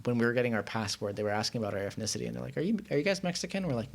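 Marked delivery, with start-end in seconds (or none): 2.6-3.7 raised, questioning official voice; quoting the official. Retold or imitated. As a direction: ask it like a puzzled clerk. Passport officials ask about ethnicity.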